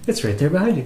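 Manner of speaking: gently helpful; super sweet. Retold or imitated. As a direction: say it kindly, like pointing something out to a friend. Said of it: "she said it super sweet".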